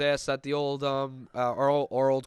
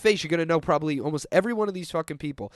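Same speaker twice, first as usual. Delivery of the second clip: loud insistence; 6 semitones higher, 7 dB louder than usual. Real, not acted. Insisting on famous names.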